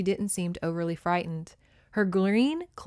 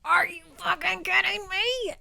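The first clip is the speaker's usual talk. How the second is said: indignant quote; 11 semitones higher than usual. Retold or imitated. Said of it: "she's like".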